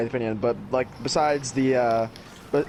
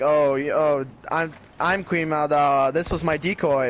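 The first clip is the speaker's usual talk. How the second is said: lightly imitated emotionless queen, dazed; mock a drugged-sounding royal with no emotion; mock monotone Queen Amidala; 3 semitones higher than usual. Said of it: "no emotion or no change of face at all".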